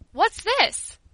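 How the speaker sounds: high, loud incredulous challenge; outraged disbelief; stupefied anger. A narrator's reading. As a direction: react with astonishment turning to anger. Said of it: "with stupefaction and growing anger".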